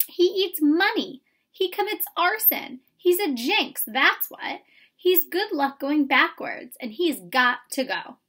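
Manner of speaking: high, loud, scolding rant; Mama scolding the boy about the cricket; angry mother. A narrator's reading. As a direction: list his crimes like an indictment.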